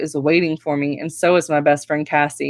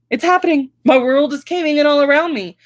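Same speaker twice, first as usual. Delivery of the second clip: much higher, wailing despair; dramatic despair; 10 semitones higher than usual. A narrator's reading. Daughter despairing over the move, high and wailing. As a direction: wail it like the world is ending.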